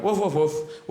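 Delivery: lightly voiced dog woofs; dog barking. Alien dogs talking before leaving, lightly barked woofs. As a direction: woof like a chatting dog. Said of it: "And they went".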